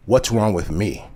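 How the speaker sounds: measured, grave retold question; understated, sober challenge; very serious. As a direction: ask it dead seriously at an even pitch. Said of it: "she looks at me very seriously".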